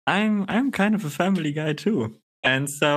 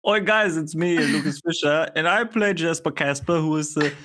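bad Scottish accent. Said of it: "That is not Scottish".

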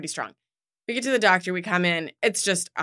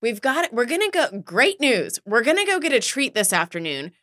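cheery parent pitch; 3 semitones higher than usual. Retold or imitated. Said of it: "He said".

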